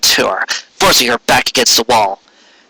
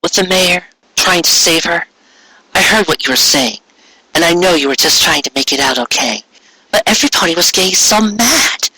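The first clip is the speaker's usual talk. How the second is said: gentle Cheerilee; 5 semitones higher than usual. Acted. Cheerilee explaining to Trixie why she helped, lightly higher earnest voice. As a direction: reassure her calmly.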